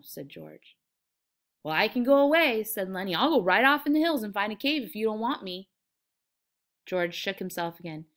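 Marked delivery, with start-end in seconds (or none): 1.6-2.6 higher, louder protest; lightly acted hurt appeal; wounded offer. Lenny offers hurt to leave. 3.2-5.7 mildly hurt, louder protest; lightly acted injured appeal; wounded offer. Lenny offers hurt to leave.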